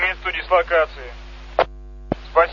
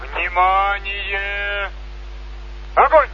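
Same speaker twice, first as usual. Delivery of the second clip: military commands; slower than usual. Real, not acted. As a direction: call out firing commands. Salute firing commands over loudspeaker.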